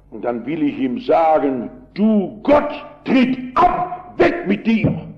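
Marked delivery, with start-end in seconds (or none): 1.9-5.1 high, forceful retold shouting of each warum. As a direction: hurl every warum at God, high and hard. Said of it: "So schrie der Mann".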